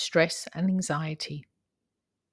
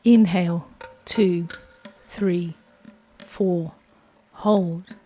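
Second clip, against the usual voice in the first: steady, calm counting of breaths; guided breathing count; 3 dB louder, slower than usual. Acted. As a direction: lead the breath count evenly.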